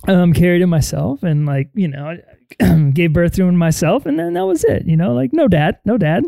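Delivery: a lightly voiced nervous mother, rushing the excuse; mock flustered lie. Mocking Shmi explaining to Qui-Gon, hammed-up flustered lie. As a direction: stammer out an obvious cover story. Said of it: "She's like".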